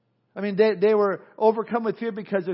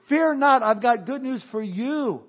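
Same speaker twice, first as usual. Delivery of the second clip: high, loud "Fear not", then a slow "I've got good news for you"; an angel calling out to the terrified shepherds, high and loud; angel announcing; 6 semitones higher, 5 dB louder, slower than usual. Acted. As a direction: proclaim it like a herald angel. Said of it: "the angel says".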